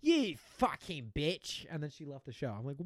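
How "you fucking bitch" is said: slow, drawn-out mock chef insult; Gordon Ramsay. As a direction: lightly mimic a yelling chef, dragging the words. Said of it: "sorry for yelling".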